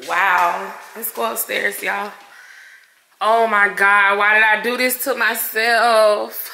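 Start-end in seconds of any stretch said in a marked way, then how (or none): 3.2-6.5 mildly tearful, regretful lament; real tears under a mostly steady voice; really crying. Real, not acted. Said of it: "Now I'm really crying".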